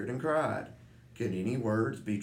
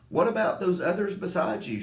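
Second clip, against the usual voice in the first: shouted; 8 semitones higher, 4 dB louder than usual. A narrator's reading.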